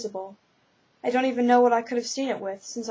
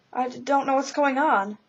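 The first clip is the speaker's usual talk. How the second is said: stuttering; 3 semitones higher than usual. Acted. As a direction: stumble on the first word, nervous stutter. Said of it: "you're the first spirit I've known to stutter".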